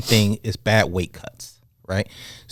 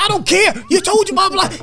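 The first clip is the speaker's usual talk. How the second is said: heated refusal. Retold or imitated. Retold heated argument.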